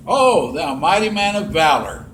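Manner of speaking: mildly mocking grand salute; sarcastic. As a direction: tease him with lofty praise. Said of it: "That's kind of sarcasm".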